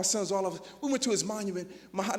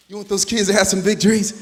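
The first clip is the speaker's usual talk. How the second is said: challenging; 11 dB louder than usual. Acted. Challenging the teachers.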